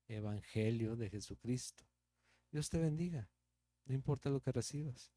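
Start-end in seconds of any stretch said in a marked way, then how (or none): 2.5-3.3 with conviction. Shown as a demonstration. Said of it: "pero con convicción".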